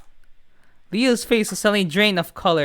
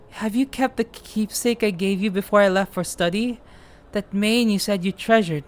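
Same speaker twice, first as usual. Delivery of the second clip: creepy brother voice; 3 dB quieter than usual. Acted. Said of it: "the creepy voice".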